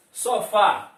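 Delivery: Sofá, loud, with a strong final fá; stress on last syllable. Shown as a demonstration. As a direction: punch the end of Sofá. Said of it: "qual é?". (Sofá com força na última sílaba)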